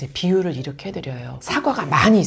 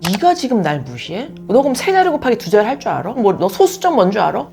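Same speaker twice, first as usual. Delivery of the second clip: louder, fast, rising defensive retort; mock-offended comeback, louder, fast; picking a fight; 4 semitones higher, 7 dB louder than usual. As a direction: snap back like you've been insulted. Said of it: "싸우려 드는 거죠".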